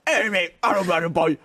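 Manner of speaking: imitated bad British accent; garbled attempt at talking British. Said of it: "Jeff was trying to talk British".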